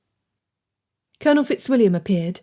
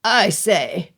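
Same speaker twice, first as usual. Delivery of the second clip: nasal protest. A narrator's reading. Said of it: "a nasal voice protested".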